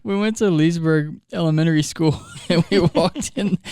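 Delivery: words broken by laughter; laughing. Real, not acted. Pastor laughing as he admits going to the wrong school. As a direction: laugh through the confession.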